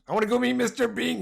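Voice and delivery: high, hammed-up British accent; mock British accent. Teasing British viewers in a mock British accent. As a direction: play the naive Brit fan, British accent. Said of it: "You guys must think us Canadians".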